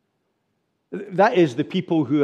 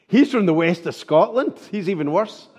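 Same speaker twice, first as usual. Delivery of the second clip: mock sneer; 3 dB louder than usual. Preacher voicing a mocker who sneers at Peter's accent. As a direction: sneer at the outsider's roots. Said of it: "third accusation that comes".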